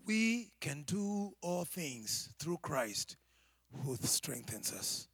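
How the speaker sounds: slow, deliberate recitation of the verse; slow emphatic reading. Shown as a demonstration. Preacher reciting the verse back to the church, slow. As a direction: lay every word down slowly. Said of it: "Say it one more time".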